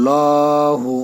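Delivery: lahu with a full heavy L; লহু with a heavy, full L. Shown as a demonstration. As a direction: say লহু thick and full-mouthed. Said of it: "মোটা করে পড়তে হবে".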